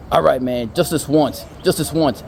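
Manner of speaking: lightly acted giving-in, fairly loud; a touch of grudging consent; reluctant agreement. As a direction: give in to the plea, plainly. George gives in to the begging.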